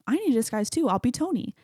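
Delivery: Bruce. Retold or imitated. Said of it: "Bruce is like".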